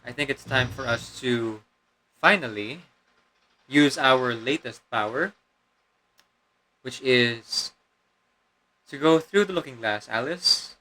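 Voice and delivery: demon voice held through the commentary; a put-on demon voice; demonic layered voice. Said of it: "the demon voice is kinda straining me".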